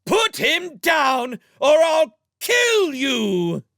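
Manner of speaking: very high, loud and slow, screaming at him; shrieking threat at the top of her voice; furious shout. Acted. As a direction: yell it to stop a kidnapper. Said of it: "Sophie behind Waif shouting".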